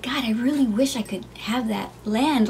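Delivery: unvoiced wistful whisper. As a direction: breathe it out as a secret wish. Whispering wish.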